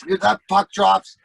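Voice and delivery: mock ticked-off ultimatum; pissed off. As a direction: issue a threat as a retold tough guy. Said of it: "Chase is all pissed off".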